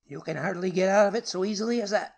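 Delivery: put-on high, strained voice of a raving old man; senseless rage. A narrator's reading. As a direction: spit it out in uncontrolled rage. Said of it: "in his senseless rage".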